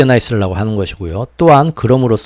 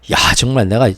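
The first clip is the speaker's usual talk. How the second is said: ordinary delivery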